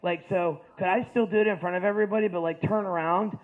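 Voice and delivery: a hint of a shy, stammering football player; nervous jock. Football player asking coach to turn around, hesitant.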